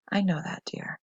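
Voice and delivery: soft, calm reassurance; quiet and calm, mother to daughter; perfectly calm. A narrator's reading. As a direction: settle her gently. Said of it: "Her voice was perfectly calm".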